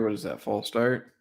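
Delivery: words stretched by a yawn. Real, not acted. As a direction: talk through a yawn. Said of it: "I don't know why I'm yawning".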